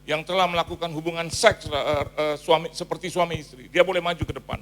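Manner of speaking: loud, ringing pulpit proclamation; booming word of prophecy; prophetic call. Retold or imitated. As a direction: call it out to the whole church. Preacher calling out prophecy.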